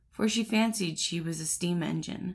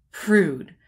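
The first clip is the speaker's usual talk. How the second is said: a sharp, louder scornful outburst; offended collar snaps back; exclaimed; 7 dB louder than usual. Acted. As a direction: spit the word out like an insult. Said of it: "exclaimed the collar".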